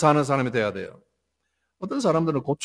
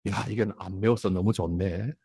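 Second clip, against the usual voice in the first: soft, low pleased remark; understated appreciation, voice dropped; contented; 8 semitones lower, 8 dB quieter than usual. Retold or imitated. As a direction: imitate a quietly satisfied eater. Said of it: "감사하는 사람은 정반대로".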